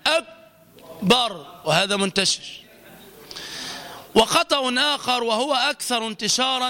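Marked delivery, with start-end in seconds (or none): 0.1-1.6 "أكبر" with no puff after the K; K without hams. Shown as a demonstration. Teacher showing a common mistake, unaspirated K. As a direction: stop the ك of أكبر dead before "bar". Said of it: "يترك صفة الهمس فيقول".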